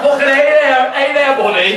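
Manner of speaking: loud, showy American greeting; hammed-up American "hey there, buddy"; American accent. Shown as a demonstration. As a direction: show off a put-on American accent. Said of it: "thinking I'm shit in American accents".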